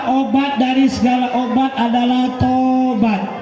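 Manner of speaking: each word laid out slowly for the crowd; slow teaching line. Shown as a demonstration. Preacher giving the congregation a line to repeat, slow and deliberate. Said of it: "Ulangi, Bapak Ibu".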